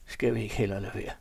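understated, hesitant appeal; timid pleading. A narrator's reading. Begs his companion to drop it, timidly. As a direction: plead gently, afraid of the answer. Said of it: "sagde han frygtsomt og bedende".

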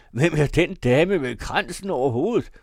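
loud, high urgent question; startled shout. A narrator's reading. Arthur asking about the portrait, shouting. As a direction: call out the question in astonishment. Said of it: "råbte han".

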